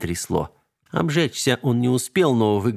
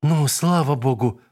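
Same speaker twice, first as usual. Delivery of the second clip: slow relieved sigh of thanks; 5 semitones higher than usual. A narrator's reading. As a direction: let the relief out slowly. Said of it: "у Вики отлегло от сердца". (с облегчением)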